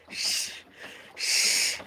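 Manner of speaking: soft breathy hush; quiet shushing; whispered shush. Pretend. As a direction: hush yourself down. Shushing himself.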